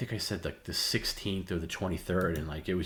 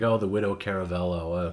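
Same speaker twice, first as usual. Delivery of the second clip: mock teasing. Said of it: "I was like".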